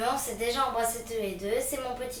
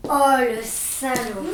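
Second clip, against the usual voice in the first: outraged; 5 dB louder, slower than usual. Acted. Sister learns boyfriend cheated.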